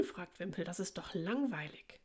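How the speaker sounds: measured read-aloud with lilting character lines; storybook narration with lightly lifted dialogue; children's story reading. Acted. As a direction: read a picture book to young children.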